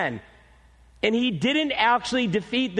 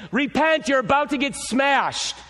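raised, higher blunt warning; prophet's warning; 4 semitones higher than usual. Acted. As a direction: shout the doom at them. Quoting Jonah's blunt warning.

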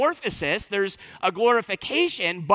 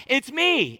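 "It's me" said higher with weight on me; exclamation mark; 5 semitones higher than usual. Acted. Preacher showing Jesus' emphatic it's me, higher. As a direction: punch it like an exclamation. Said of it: "with a punctuation mark, an exclamation mark".

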